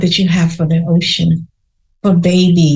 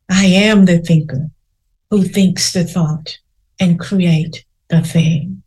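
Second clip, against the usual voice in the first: soft repeated affirmation. Shown as a demonstration. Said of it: "Say that to yourself three times".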